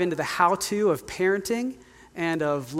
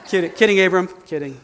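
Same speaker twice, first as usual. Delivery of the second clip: laughing kidding; 7 dB louder, faster than usual. Real, not acted. Takes back the joke, laughing.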